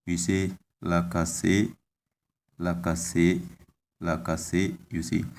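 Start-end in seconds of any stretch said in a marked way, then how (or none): 0.8-4.7 la ka se with the a drawn long; lengthened vowel. Shown as a demonstration. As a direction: stretch the double a in la ka se. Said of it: "So there is lengthening".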